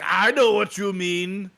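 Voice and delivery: slow mock German accent; lightly done German voice. Joking about the actress in a mock German accent. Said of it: "what'd you think of my German accent".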